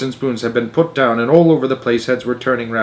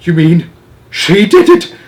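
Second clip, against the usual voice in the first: father shouting across the room; shouted; 7 semitones higher, 8 dB louder than usual. Acted. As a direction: shout and point. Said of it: "shouted Mister Jenkins".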